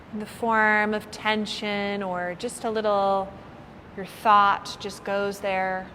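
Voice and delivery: unhurried meditation guide with long pauses; lightly held yoga nidra voice; guided meditation. Real, not acted. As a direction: ease listeners into relaxation, phrase by phrase. Leads a guided body-scan relaxation.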